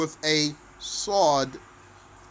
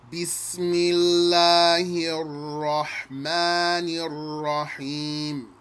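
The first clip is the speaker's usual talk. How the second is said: Quran recitation. Shown as a demonstration. Teacher recites Al-Fatiha for students, chanted recitation. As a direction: chant each ayah in one breath. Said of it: "let's recite, one time from beginning to end".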